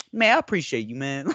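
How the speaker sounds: happy, high-pitched casual thanks; Marshawn Lynch, nonchalant. Retold or imitated. Retelling a player's thanks to his teammate, nonchalant and happy. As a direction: toss off an easygoing, pleased thank-you. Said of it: "so nonchalant, happy, just, like".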